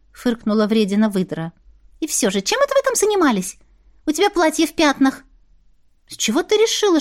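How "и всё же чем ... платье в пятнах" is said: high, perky magical creature; high sassy familiar voice; Larin's voice. Acted. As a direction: pitch it up for the cheeky little familiar. Larin prying.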